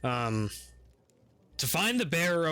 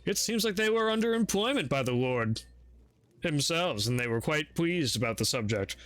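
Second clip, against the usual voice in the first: butler voice. Acted.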